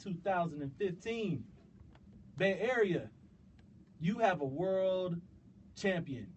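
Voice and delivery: ringmaster-style hype intro; grand entrance announcement. Acted. Podcast opening hype intro.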